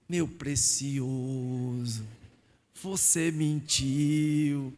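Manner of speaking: very slow, mock gentle address; mock tender. Preacher voicing the Spirit to the liar, mock tender and slow. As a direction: draw out each word like a soothing friend.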